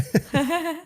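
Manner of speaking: short high amused laugh. Real, not acted. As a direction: break into a real laugh at the joke. Laughing at co-host's joke.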